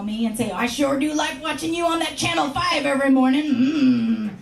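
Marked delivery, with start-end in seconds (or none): 0.5-3.5 creepy caller. Retold or imitated. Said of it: "creeps and weirdos to call".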